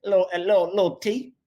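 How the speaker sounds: lightly voiced Southern order at a counter; a hint of a friendly country drawl ordering food. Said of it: "ridiculous Southern draws".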